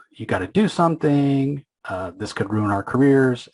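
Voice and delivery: half-yell it, imitating someone panicking at a colleague; mock yelling. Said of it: "he's freaking out, and he's, he's yelling at Wynn".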